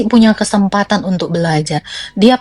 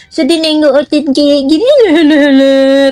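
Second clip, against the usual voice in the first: mocking scorn; 3 semitones higher than usual. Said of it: "Aku bilang kayak gitu".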